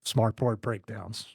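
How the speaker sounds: slow, low dramatic reveal after a long pause; announcer's drawn-out teaser. Shown as a demonstration. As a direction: let it hang, then drop it low and slow. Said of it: "You like the dramatic pause?".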